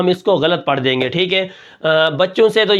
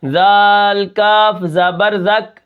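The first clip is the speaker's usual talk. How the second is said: spelling with the breath pushed out; breath let out; 2 semitones higher, much slower than usual. Shown as a demonstration. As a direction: push the breath out on each letter. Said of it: "سانس ہم نکال کے". (سانس نکال کر ہجے)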